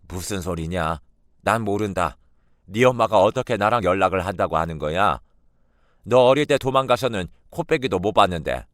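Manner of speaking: a defensive grandmother brushing it off; lightly voiced grandmother. Grandmother denies on the phone. (손녀의 추궁을 부인하는 외할머니의 퉁명스러운 목소리)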